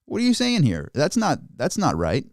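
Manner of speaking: high, incredulous "whoa, whoa, whoa"; alarmed disbelief. Retold or imitated. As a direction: react like you just heard something shocking. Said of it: "It's like".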